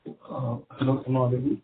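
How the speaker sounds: muffled voice over a bad line. Real, not acted. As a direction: speak as if through a covering. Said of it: "you're sounding slightly muffled".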